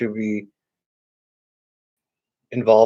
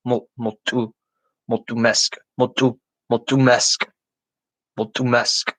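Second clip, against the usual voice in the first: careful practice of mulțumesc with crisp T and final-syllable stress; mul-țu-MESC, sounded out in pieces; stress on last syllable. Shown as a demonstration. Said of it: "mesk is the, the accent, the stress".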